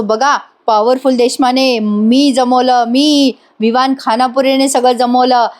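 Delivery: slow, showy bragging; boasting. Retold or imitated. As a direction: drag out each claim proudly. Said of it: "पपाऱ्या मारतोय".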